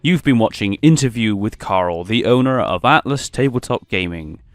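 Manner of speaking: flight attendant voice. Acted. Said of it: "I sound like a bloody flight attendant".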